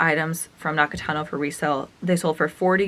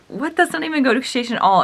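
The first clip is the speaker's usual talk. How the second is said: indignant disbelief; 7 semitones higher than usual. Retold or imitated. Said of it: "I was P O'd, like, so irritated".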